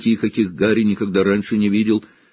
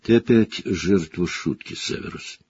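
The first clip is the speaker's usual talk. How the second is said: hoarse rasp; 4 dB quieter than usual. Acted. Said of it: "прохрипел Блэк".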